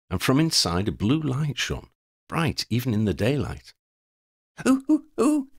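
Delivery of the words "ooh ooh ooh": high, loud, gleeful ooh ooh ooh; excited exclaim. Acted. Freddy spots the glowing mandala, excited high squeal. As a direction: squeal it out in sudden delight. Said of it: "Freddy exclaimed".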